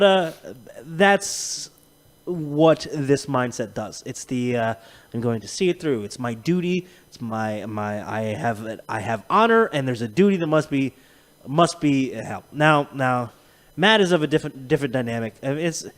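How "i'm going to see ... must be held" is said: solemn duty. Acted. Acting out the dutiful mindset.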